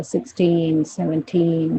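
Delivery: "सिक्सटीन, सेवनटीन" with drawn-out "टीन"; teacher's drill, long "टीन"; stress on TEEN. Shown as a demonstration. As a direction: stretch the end of each number. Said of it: "टीन पर stress दिया जाएगा".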